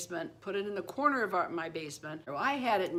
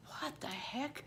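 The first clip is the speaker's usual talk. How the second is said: much higher, soft, puzzled; startled; 9 semitones higher, 8 dB quieter, slower than usual. Retold or imitated. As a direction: jump at a strange noise. Startled by banging at window.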